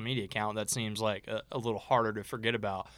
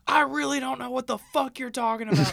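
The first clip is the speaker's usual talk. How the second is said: very high, loud, laughing panicked denial; a fiance squealing in mock panic, laughing; squeaky panicked guy; 7 dB louder than usual. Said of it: "he was like".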